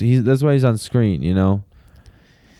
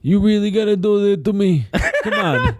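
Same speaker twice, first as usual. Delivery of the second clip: mock pleading mobster; 4 semitones higher than usual. Pleading mobster brother role-play.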